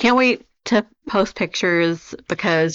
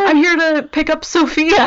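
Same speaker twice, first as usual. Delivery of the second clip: Burt Reynolds voice; 9 semitones higher, 3 dB louder than usual. Retold or imitated. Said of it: "Burt Reynolds comes to the house and is like".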